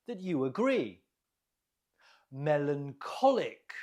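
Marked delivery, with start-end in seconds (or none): 2.3-3.7 "Melancholic" with the stress on -CHOL- (ko), clear teacher model; model pronunciation. Shown as a demonstration. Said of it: "Note the stress on the ko".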